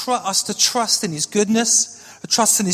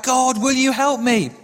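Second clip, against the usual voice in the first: higher, mildly pleading mock cry; retold desperate cry; 4 semitones higher than usual. Man on the breaking branch begging God, mild retold cry. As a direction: plead upward without really shouting. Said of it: "finally cried out".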